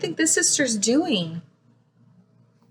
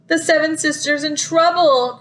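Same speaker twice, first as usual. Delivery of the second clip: alarmed cry; 3 semitones higher than usual. Acted. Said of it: "cried first sister".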